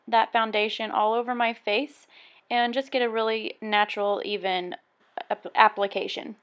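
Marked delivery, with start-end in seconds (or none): 5.3-6.3 stumbling on the word; stuttering start, then word. Real, not acted. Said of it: "Sorry, I'm stuttering".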